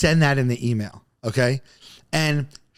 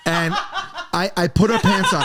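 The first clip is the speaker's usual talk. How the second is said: giggling a little higher through the words; laughing; 4 semitones higher than usual. Real, not acted. Laughing as he tells the hosts he wore her pants. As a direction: laugh out the confession. Laughing at his own story.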